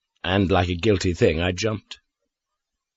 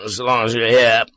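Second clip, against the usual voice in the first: grudging; 2 semitones higher, 3 dB louder than usual. Acted. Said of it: "he said grudgingly".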